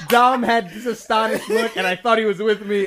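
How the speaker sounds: high, loud, laughing through the words. Real, not acted. Host recounting his cohost's reaction, laughing loud. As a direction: crack up while telling it.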